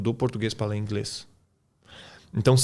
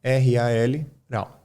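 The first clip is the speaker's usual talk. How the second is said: syllable by syllable; much slower than usual. Shown as a demonstration. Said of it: "É assim que a gente lê em português".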